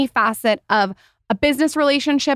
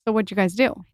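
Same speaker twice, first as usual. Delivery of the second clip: breathy hushed question; whisper; 2 semitones lower than usual. Real, not acted. Co-host teasing about the date, whispering. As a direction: lean in and whisper it.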